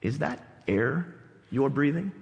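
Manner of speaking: low, soft, measured mentor voice; very deep voice. Retold or imitated. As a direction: imitate a deep-voiced master, pausing between words. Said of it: "in his very deep voice".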